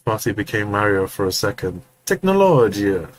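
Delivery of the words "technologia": put-on slow Italian accent; drawn-out Italian Technologia. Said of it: "In an Italian accent".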